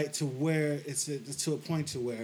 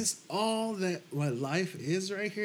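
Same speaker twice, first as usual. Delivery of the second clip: high-pitched, upset demand to God; retold yelling; 8 semitones higher, slower than usual. Man pleading with God in retelling, high mild yell. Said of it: "I yelled at God".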